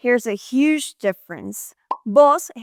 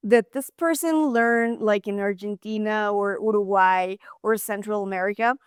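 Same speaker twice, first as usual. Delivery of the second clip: puzzled onlooker. Retold or imitated. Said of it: "people are going to look at you like".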